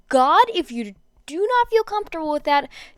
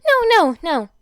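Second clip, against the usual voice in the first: loud, high, breathless through giggles; laughing protest; 5 semitones higher, 7 dB louder than usual. Acted. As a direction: gasp it out mid-laugh. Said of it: "she gasped".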